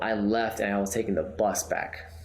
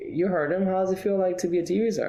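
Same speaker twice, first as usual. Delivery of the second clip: excited manager; 10 semitones higher than usual. Retold or imitated. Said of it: "my manager was like".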